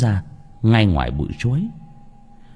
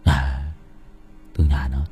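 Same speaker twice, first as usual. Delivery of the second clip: talking in his sleep; 4 semitones lower than usual. A narrator's reading. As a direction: call out drowsily to a lost lover, drawing it out. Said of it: "anh ấy nói ngủ mơ". (nói mớ, giọng trầm lê thê)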